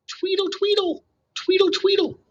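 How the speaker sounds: high, chirpy birdsong imitation; chickadee song. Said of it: "their song had sounded like".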